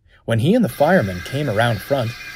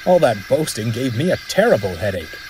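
smirking. Acted. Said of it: "smirked the driver".

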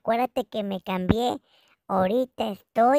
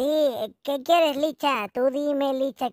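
ordinary delivery

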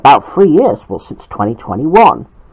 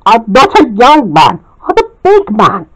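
mild mock yell; 8 semitones higher than usual. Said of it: "yelled Jack".

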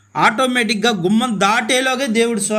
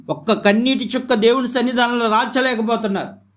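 raised voice climbing into reproach; impassioned preaching; 6 semitones higher than usual. Acted. Preacher lamenting that nobody prays with tears, impassioned. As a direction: press the rebuke like a preacher.

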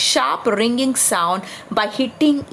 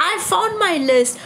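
higher, cheerful ho ho; jolly Santa; 7 semitones higher than usual. Acted. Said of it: "suddenly jolly again".

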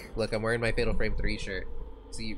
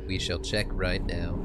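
slow formal voice; 4 semitones lower, slower than usual. Acted. Whispered then repeated.

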